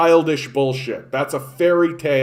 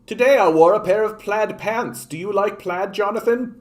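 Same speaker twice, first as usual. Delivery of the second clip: mock harmless comment; 5 semitones higher than usual. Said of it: "it just literally is like".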